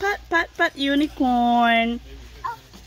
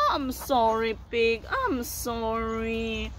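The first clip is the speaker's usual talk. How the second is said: pretend apology; 2 semitones lower, 5 dB quieter than usual. Apologising to dropped toy pig.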